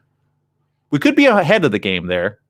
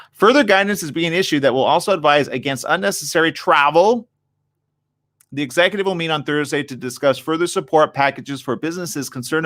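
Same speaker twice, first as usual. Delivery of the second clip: reading aloud; 5 semitones higher, 3 dB louder than usual. Real, not acted. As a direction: read the article out, slightly raised voice.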